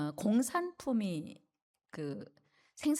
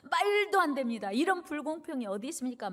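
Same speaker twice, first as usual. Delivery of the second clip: raised-pitch indignant protest, short of shouting; mock yelling; 4 semitones higher than usual. Grumbling worker protests unequal pay, mock outraged yell. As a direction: act out an outraged objection. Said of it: "막 소리소리 지르는 거예요".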